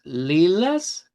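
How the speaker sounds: "lilas" with a centralized A; Portuguese lilas. Shown as a demonstration. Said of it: "Por eso decimos".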